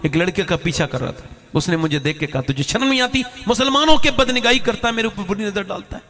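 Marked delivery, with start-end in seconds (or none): 2.4-6.0 high, sharp retold rebuke; angry scolding. Boy rebukes the staring hafiz, high angry scolding. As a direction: scold him like an offended boy.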